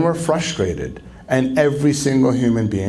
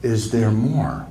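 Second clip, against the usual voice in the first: gentle invitation; slower than usual. Shown as a demonstration. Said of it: "here's the magic question".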